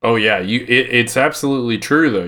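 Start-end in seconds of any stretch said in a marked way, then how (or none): none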